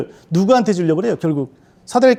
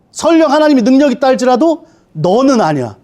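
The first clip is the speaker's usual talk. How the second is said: Satan mocking; 5 semitones higher, 3 dB louder than usual. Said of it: "사단이 이렇게 되는 거예요".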